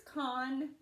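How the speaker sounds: "conversation" broken into con, ver, sation with pauses; syllable by syllable. Shown as a demonstration. Teacher sounding out the divided word, "conversation" said piece by piece. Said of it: "You tell me where that accent goes".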